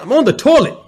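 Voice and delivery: high, loud exasperated protest; exasperated yell. Retold or imitated. Telling the tech through the door he's on the toilet, exasperated yell.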